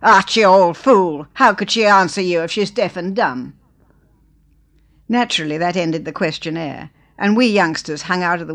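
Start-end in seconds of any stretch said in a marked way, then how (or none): 0.0-3.5 violent outburst. Acted. Husband Ned to wife Archie, exasperated loud outburst. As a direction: burst out at your silly wife. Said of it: "Ned burst forth violently".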